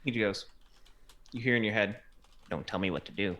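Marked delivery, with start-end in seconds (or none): 2.5-3.4 telepathic creature. Acted. Telepathic beholder voice in head.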